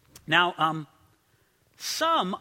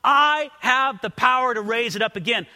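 voicing Jesus; 5 semitones higher, 5 dB louder than usual. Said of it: "Then Jesus says".

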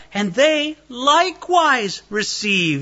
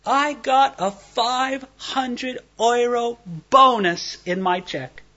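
bragging coworker; 4 semitones higher, slower than usual. Retold or imitated. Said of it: "And he goes".

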